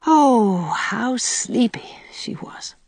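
slow unvoiced sleepy whisper. A narrator's reading. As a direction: breathe it out, drowsy.

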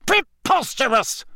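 very high indignant exclamation; high, scandalised cry; outraged shout. A narrator's reading. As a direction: burst out in disbelief. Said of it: "shouted Fudge again".

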